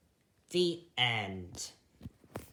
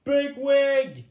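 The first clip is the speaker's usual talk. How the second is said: high loud joyful yell; 13 semitones higher, 11 dB louder than usual. Acted. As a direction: shout his name in relief. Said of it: "yelled Pipkin and Fiver".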